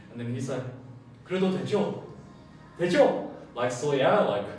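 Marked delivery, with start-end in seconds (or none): 1.2-3.3 pleading eager ask. Retold or imitated. Lovestruck young man pleading for the woman's permission, rising to a high plea. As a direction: beg like a lovestruck kid.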